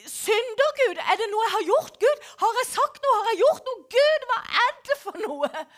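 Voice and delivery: horrified pleading. Retold or imitated. Rider crying out to God about his sins, alarmed. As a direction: beg for an answer, shaken. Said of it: "Jeg blir helt forferd".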